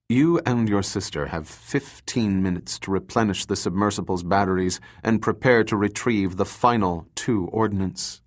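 calm, even and cold. Acted. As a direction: say it flatly calm, no hurry. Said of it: "he said calmly".

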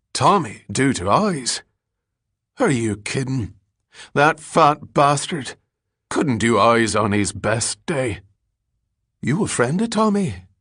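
scornful, high-pitched derelict; Billy Collins. A narrator's reading. Ragged man asked what Tommy did to Eyes, scornful and high.

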